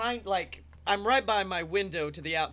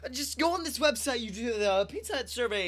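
laughing reassurance; 6 semitones higher, 5 dB louder than usual. Retold or imitated. Delivery guy reassuring, laughing.

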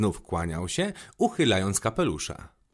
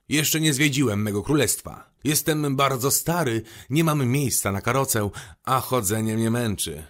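lightly voiced old king, higher and emphatic; a hint of a self-important old monarch; 3 semitones higher, 3 dB louder than usual. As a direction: raise the pitch a little for the king's complaint.

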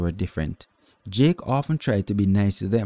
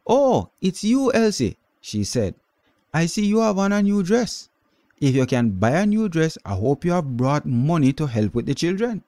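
cool aunt; 8 semitones higher than usual. A narrator's reading. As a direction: needle her sister about money. Aunt Mary greets Elsie.

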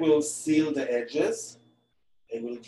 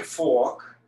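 New York accent, fork said as "fawk" with no r. Real, not acted. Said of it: "Did you hear my New York accent?".

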